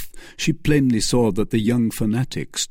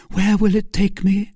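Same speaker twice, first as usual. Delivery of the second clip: much higher questioning voice; eager Milady; 10 semitones higher, 4 dB louder than usual. Acted. Milady asking Felton where the ship goes, high-pitched. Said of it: "asked Milady".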